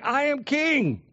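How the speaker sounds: a hint of a regal Jesus issuing orders; Jesus as king. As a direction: speak as the king laying down his command. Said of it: "Jesus is saying".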